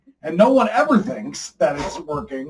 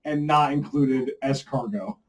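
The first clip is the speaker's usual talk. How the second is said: mock French accent; 6 dB louder than usual. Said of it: "my French crocodile accent".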